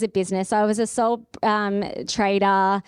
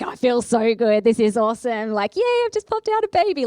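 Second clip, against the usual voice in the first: giddy delight. Retold or imitated. Retelling her elated thoughts.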